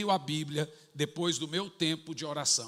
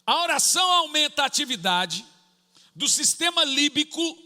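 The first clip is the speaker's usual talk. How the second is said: high, loud preaching; full-force preaching; 7 semitones higher, 6 dB louder than usual. Real, not acted. Pastor preaching to the church about prayer, at full force. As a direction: drive the point home to the church.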